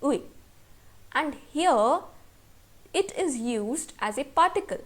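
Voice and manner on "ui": ui said as two clear vowels, u then i; normal pronunciation. Shown as a demonstration. Teacher demonstrating the syllable ui to students, carefully pronounced. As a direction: sound out ui fully as a syllable. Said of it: "normal pronunciation है".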